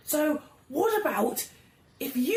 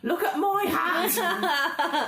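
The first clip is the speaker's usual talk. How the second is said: shouting taunt; 4 semitones higher than usual. Acted. Goblin taunting guards loudly.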